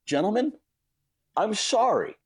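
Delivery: high, pumped-up apology; mock frenzied sorry; retold frantic apology. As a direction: apologize while still wired. Apologizing to deli guys.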